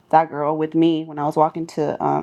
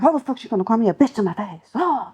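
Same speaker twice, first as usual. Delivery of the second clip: mock fuming; 4 semitones higher than usual. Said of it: "I was mad the whole day".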